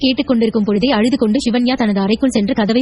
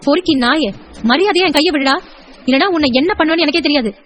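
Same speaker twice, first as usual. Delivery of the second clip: higher-pitched indignant threat; angry warning; 4 semitones higher than usual. Acted. Woman ordering the harasser to let go, angry. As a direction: demand release with rising outrage.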